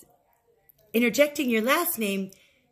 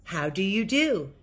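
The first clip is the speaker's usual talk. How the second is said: slow model phrase; slower than usual. Shown as a demonstration. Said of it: "used a set phrase".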